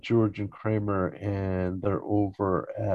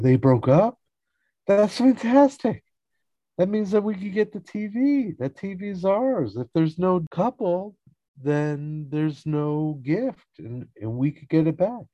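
high, hammed-up gleeful outburst; mock elation; 11 semitones higher, 3 dB louder than usual. George hearing the Drakes broke up, gleeful. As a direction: start loud with surprise, then scheme excitedly. George delighted by breakup news.

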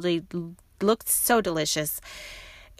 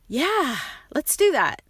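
eager yes; 9 semitones higher, 3 dB louder than usual. Retold or imitated. Agreeing to the husband's bakery idea.

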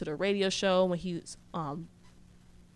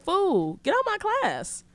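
mock teacher yell; 13 semitones higher, slower than usual. Teacher yelling at an interrupting student, high mock yell.

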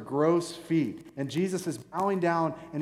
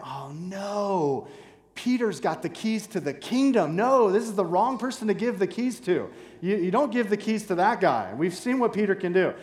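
jealous disciples grumbling; 4 semitones higher than usual. Retold or imitated. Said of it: "kind of hear the other eleven disciples kind of thinking".

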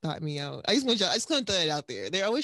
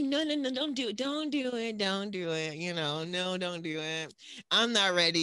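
nervous pleading. Retold or imitated. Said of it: "I'm like".

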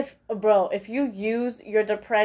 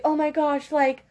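lightly higher, overdone sympathetic gush; mock gushing sympathy; 3 semitones higher than usual. Friend reacting to confession, lightly higher gushing. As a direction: play the fake supportive friend. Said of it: "they're just gonna say".

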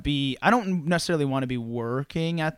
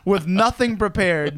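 laughing; 7 semitones higher, 6 dB louder, slower than usual. Real, not acted. Laughing at his own story.

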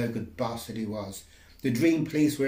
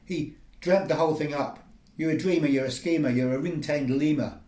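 indignant rant; 4 semitones higher, 5 dB louder than usual. Acted. Ranting accusation at the judge.

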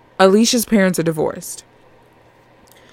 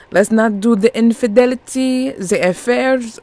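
higher, emphatic refusal; firm refusal; 4 semitones higher than usual. Real, not acted. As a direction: push back on infidelity plots. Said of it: "No, no, no, no, no".

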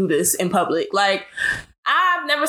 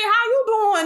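high mock white-person greeting; 9 semitones higher than usual. Mocking celebrities who say how you doing, high and hammy. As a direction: put on a high, fake-friendly voice. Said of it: "when they say".

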